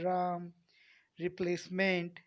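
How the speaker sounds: राम, रिप्लेसमेंट with a clear starting R; sounded initial R. Shown as a demonstration. Teacher demonstrating R at word start, clearly sounded. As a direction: pronounce the R opening राम and रिप्लेसमेंट. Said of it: "आर की तरफ हो जाता".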